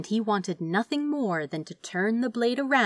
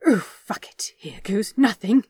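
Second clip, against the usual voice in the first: whispered, bracing for the plunge; whispered resolve; 3 semitones higher, 6 dB louder than usual. Acted. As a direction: breathe it out under the breath, determined. Bracing himself before jolting forward.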